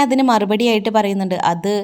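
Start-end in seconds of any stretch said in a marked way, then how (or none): 1.5-1.7 stall, stretching the words; hesitant, dragging it out; mildly voiced reluctant daughter-in-law stalling; drawn-out hesitation. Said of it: "എന്ന് പറഞ്ഞ് അവൾ നീട്ടുകയാണ്".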